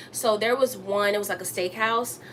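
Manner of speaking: talking around a retainer; slightly lisped retainer speech; wearing a retainer. Real, not acted. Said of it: "I have my retainers in, so I'm talking kinda funny".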